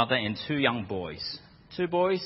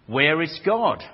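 louder booming minister; 3 semitones higher, 6 dB louder than usual. Retold or imitated. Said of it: "The minister repeated the question".

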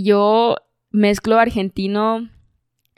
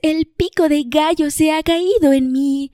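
mock neutral dub Spanish; 5 semitones higher than usual. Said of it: "Español neutro".

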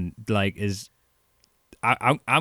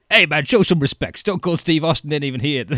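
a hint of a wrestler shutting the crowd down, higher; mock stern put-down, pitched up; wrestler scolding crowd; 6 semitones higher, 4 dB louder than usual. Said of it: "he just turns out the crowd like".

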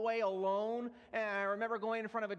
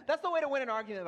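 laughing fast and louder; 4 semitones higher, 6 dB louder, much faster than usual. Real, not acted. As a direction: chuckle through the punchline. Laughs at his own story.

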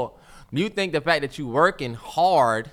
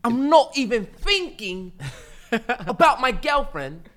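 slow, higher put-on British accent; mock UK accent; 3 semitones higher, slower than usual. Podcaster mocks UK listeners for laughs, slow British accent. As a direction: mimic a Brit, drawn out and pitched up. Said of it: "mocking their accent".

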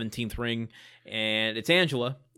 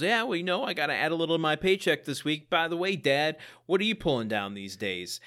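cocky; 4 semitones higher than usual. Retold or imitated. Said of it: "Brad gets a little cocky and goes".

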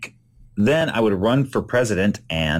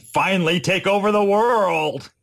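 lightly hammed-up scheming cartoon villain, higher; the Brain; 11 semitones higher than usual. Cartoon mouse announces his world takeover, mock-triumphant. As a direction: build to a mock-triumphant declaration, stretching the end. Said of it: "I would be the Brain".

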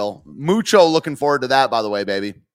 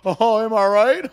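mock pundit voice; 4 semitones higher than usual. Mocking sarcastic pundit voice.

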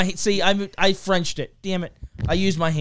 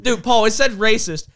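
laughing; 5 semitones higher, 7 dB louder than usual. Real, not acted. Laughing while teasing co-host.

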